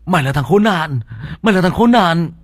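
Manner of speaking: taunting demon. A narrator's reading. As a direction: jeer and accuse, building up. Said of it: "con quỷ bắt đầu đổi giọng".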